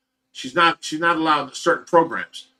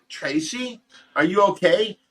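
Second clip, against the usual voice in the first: higher, anxious check on her; worried call; 5 semitones higher than usual. Retold or imitated. Husband finding his shaking wife behind the curtain, worried and higher.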